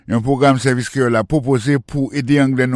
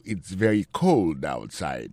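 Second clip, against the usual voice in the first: slow and lower teaching read; slow model sentence; 6 semitones lower, 4 dB quieter, slower than usual. Shown as a demonstration. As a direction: say it slowly for learners. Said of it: "teacher models the sentence". (li dousman pou elèv yo)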